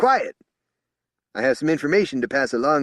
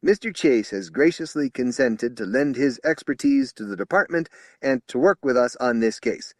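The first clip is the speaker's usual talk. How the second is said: higher and louder formal warning; stern announcement; 7 semitones higher, 7 dB louder than usual. Acted. Spokesman formally demanding respect for Chase, loud. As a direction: lay down the law formally. Official introduction to officers.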